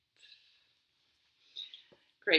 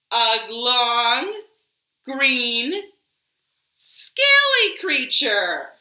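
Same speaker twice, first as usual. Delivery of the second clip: building wonder; 4 semitones higher, 5 dB louder, much slower than usual. A narrator's reading. Narrator builds to reveal.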